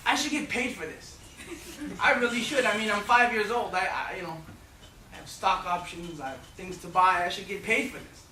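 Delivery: put-on high, whiny protest of a small boy; upset kid. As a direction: complain like an indignant five-year-old. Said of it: "I got upset with my mom and I said".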